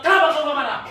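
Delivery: high, loud, scolding wife; wife furious that her husband won't fight back, mock yelling; mock angry wife. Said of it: "Nanti dia bilang".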